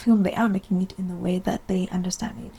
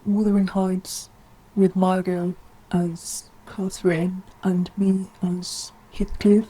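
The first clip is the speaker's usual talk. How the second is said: slow, deliberate mock pitch; lightly acted, drawn-out proposal; imagined Emerald; slower than usual. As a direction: measure out each name slowly. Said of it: "Emerald walking by".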